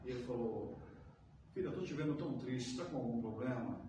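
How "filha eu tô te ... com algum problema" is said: gentle concern. Retold or imitated. Pastor gently asks sad woman.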